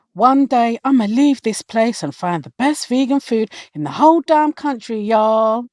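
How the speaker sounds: high, put-on Southern US dreamer; American Southern accent. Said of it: "You're Southern".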